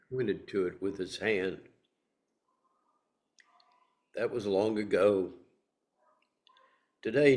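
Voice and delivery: measured verse reading, firm openings easing off; poem reading. Acted. Speaker reads Miłosz's poem to the group, measured poem reading. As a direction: read it line by line with long pauses.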